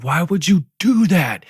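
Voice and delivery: high, loud indignant question; mock dad scolding. Dad scolding son for fighting, loud mock indignation. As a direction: imitate an appalled dad raising his voice.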